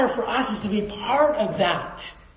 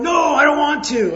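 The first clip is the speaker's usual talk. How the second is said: sudden raised "No" of stubborn refusal; inner protest; 4 semitones higher, 5 dB louder than usual. Retold or imitated. Pastor voicing his own refusal to God, raised and stubborn. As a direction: push back loudly like a balking child. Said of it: "inside I'm going".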